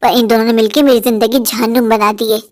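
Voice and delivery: a grumbling, bossy mother-in-law voice; hungry old mother-in-law grumbling; nagging mother-in-law. Acted. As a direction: grouse about the lazy bahus. Mother-in-law scolds absent daughters-in-law.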